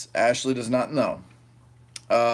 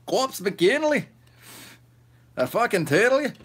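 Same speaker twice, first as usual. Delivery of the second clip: high hype call; 8 semitones higher than usual. Pretend. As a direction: call the name out like a hype man.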